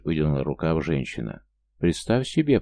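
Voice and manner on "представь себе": raised voice. A narrator's reading. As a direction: snap back, voice up. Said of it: "повысил я голос". (повышенным голосом)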